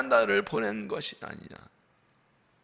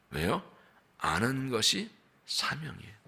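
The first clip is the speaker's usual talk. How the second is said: ordinary talk, nothing marked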